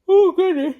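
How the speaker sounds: high, loud yawn on the words. Real, not acted. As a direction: stretch it through a yawn. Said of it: "I start yawning".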